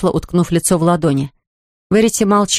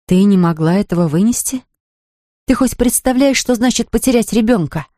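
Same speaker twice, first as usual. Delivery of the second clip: furious disbelief; 3 semitones higher than usual. Acted. Mother furious at sister-in-law.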